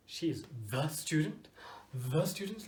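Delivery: mock puzzled. Shown as a demonstration. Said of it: "Like kami-sama mitai".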